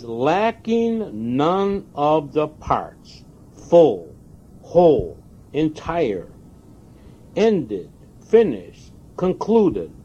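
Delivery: each word of "Lacking none of the parts" and the list weighed out slowly; a preacher savouring each word of a dictionary list; slow emphatic reading. Shown as a demonstration. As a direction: read the definitions one by one, pausing. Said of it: "I'm gonna read to you".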